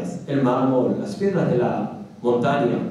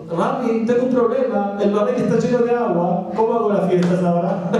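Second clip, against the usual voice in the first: raised, pleading half-sob to the rabbi; whiny crying plea; 6 semitones higher than usual. Retold or imitated. Man begging his rabbi for help, mock tearful whine. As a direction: complain tearfully, a touch hammed-up. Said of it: "va a llorar de vuelta".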